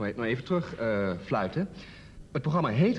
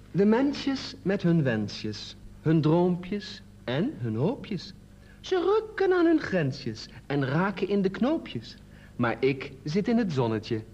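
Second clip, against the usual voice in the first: slow, measured verse reading; poem recital; 2 semitones higher, much slower than usual. Acted. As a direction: draw out each line, pausing between them. Reads own poem aloud.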